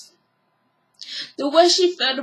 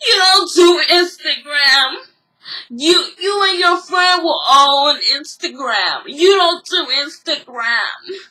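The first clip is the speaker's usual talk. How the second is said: shouting; 3 dB louder than usual. Retold or imitated.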